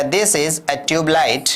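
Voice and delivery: slow, clear classroom drill; slow model sentence. Shown as a demonstration. Teacher drilling simple sentences slowly for learners. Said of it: "आपने कह दिया".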